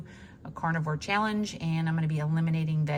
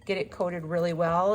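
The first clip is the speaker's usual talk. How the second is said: talking while catching breath; breathy, winded from stepping outside. Real, not acted. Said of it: "If I sound out of breath, I am".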